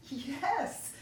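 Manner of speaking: joyful shout, high and loud; happy kid's shout. Acted. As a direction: yell it mid-cartwheel. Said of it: "shouted Ed".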